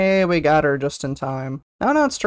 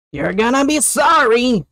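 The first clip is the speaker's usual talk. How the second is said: mock threat; 6 semitones higher, 5 dB louder than usual. Taunting in a voice.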